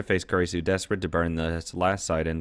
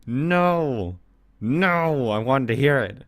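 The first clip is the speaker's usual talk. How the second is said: mock raging yell; 7 semitones higher, 4 dB louder, much slower than usual. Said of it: "smashing that wall saying".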